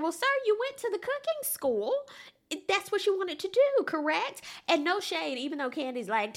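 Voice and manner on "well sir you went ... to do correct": sassy quoting. Retold or imitated. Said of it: "And it's like".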